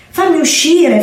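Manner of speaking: high, frantic kitten cry, trapped in the dark; a tiny trapped kitten begging to be let out; desperate kitten. Acted. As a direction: kitten crying from inside the bird's pouch. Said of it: "miagolò disperato".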